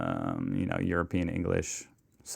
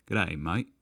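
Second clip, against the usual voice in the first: light, clumsy Aussie accent; attempted Australian accent. Shown as a demonstration. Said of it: "I can't do accents".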